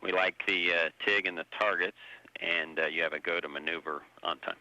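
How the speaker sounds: crackly radio transmission; over a space radio link; sci fi communicator. Real, not acted. Space shuttle radio loop.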